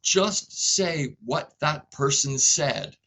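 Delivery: firm, slowed instruction; a workshop leader stopping a trainee, slow and firm; retold correction. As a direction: correct the trainee patiently but firmly. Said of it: "I said".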